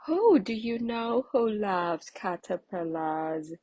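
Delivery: a creepy-crawly storybook spider; spindly spider. A narrator's reading. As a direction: spin the words out slowly. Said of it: "said a spindly spider".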